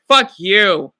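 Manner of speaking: slow and scornful, a deliberate fuck you; disgusted at someone faking cancer for views, slow curse; slow angry curse. Real, not acted. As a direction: drag out fuck you with contempt.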